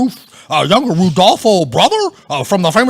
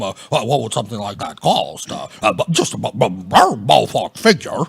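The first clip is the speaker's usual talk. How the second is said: nervous stammer; 9 semitones lower, 3 dB quieter, faster than usual. Acted. Nervous stammering about price.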